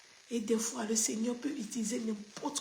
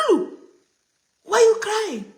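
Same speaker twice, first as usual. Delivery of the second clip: high, loud call to a pet; mock puzzled call to a dog; 10 semitones higher, 12 dB louder than usual. Calls out to crying dog.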